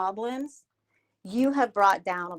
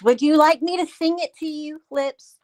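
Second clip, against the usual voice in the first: sing-song condescending; 5 semitones higher, 4 dB louder than usual. Real, not acted. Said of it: "my sing-song condescending voice".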